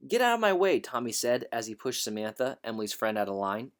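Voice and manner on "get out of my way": rude shout. A narrator's reading. Bully shoving a girl.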